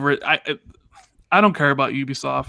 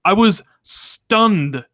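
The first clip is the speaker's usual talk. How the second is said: slow stunned; 5 semitones higher, 3 dB louder, much slower than usual. Real, not acted. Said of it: "I literally sat there at the end of the conference stunned".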